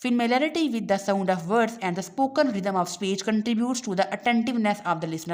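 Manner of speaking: reading the English line slowly and deliberately; slow textbook reading. Acted. Teacher reading the textbook aloud to students, slow and deliberate. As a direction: read it out word by word for the class.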